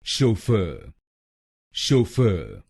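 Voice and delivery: शोफर with fer stressed, शो light. Shown as a demonstration. Teacher demonstrates stress on the second syllable. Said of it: "दूसरे शब्दांश पर ... जोर डालेंगे".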